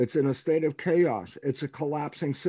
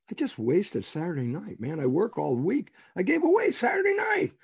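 indignant griping, climbing much higher at the end; exasperated complaint; 4 semitones higher than usual. Acted. Man grumbling to himself at home about his lost Saturday night, exasperated. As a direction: gripe your way up to a high protest.

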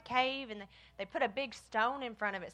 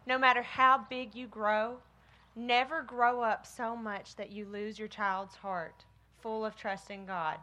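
put-on story reading to children. A narrator's reading.

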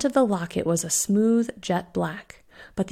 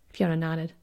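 ordinary delivery

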